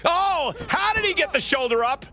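can't believe the kickout; disbelief. Real, not acted. Commentator stunned by a kickout.

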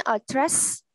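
"address" stressed on its second syllable; light start, then lean on the end of "address". Shown as a demonstration. Teacher explaining stress to pupils, second-syllable stress. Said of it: "âm tiết thứ hai được nhấn nha".

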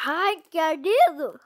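loud cry at a sour taste; eating sour candy. Real, not acted. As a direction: yelp at the sour sting.

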